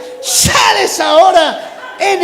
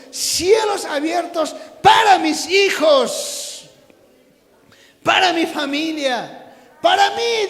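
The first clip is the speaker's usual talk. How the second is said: impassioned call-and-repeat prayer, key words stretched; fervent preaching prayer. Real, not acted. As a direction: cry out the blessings for the congregation to repeat. Leads prayer at full force.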